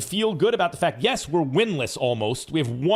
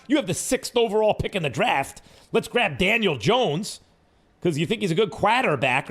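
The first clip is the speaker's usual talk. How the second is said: mock Boston accent; 3 semitones higher than usual. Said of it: "am I imitating, uh, Gettleman's Boston accent".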